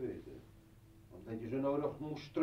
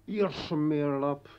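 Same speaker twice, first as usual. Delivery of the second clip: scornful shout; 2 semitones higher, 12 dB louder than usual. Acted. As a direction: hurl it at him. Beledigt hem luid. (luid en minachtend)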